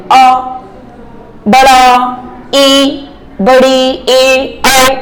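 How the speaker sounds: "अ", "ई", "ए", "ऐ" said one by one, lips kept spread; unrounded vowel demo. Shown as a demonstration. Teacher showing unrounded vowels to students, one by one. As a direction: spread lips and sound each vowel apart. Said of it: "तो देखिएगा".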